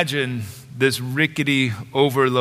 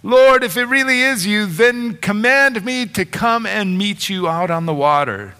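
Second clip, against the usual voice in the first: eager Peter; 5 semitones higher than usual. Retold or imitated. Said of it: "And Peter says".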